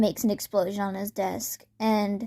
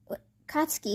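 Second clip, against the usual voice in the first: a stunned inner whisper, high and breathless; panicked whisper; 6 semitones higher, 5 dB quieter than usual. Acted. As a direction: whisper it as if shocked inside your head. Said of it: "Bakugo in his head is just freaking out".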